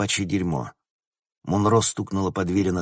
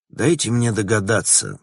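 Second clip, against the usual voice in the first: raised voice, calling out; loud; 3 semitones higher, 5 dB louder than usual. Acted. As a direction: say it loudly across the shop. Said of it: "громко сказал Логан". (громко)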